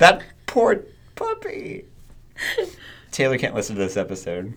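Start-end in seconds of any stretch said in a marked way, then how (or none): 0.0-1.8 high, slow, pained sympathy; distressed pity. Real, not acted. Host mourning a stranger's puppy, distressed pity. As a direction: squeak it out, aching for the victim.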